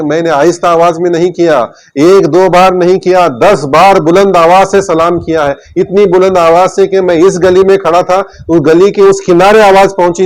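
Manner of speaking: a touch of indignant insistence, slowing as it rises; preacher voicing a hurt, heated protest; mild anger. Companion protesting to Abu Bakr that he greeted loudly, mildly angry. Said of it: "غصے میں آئے".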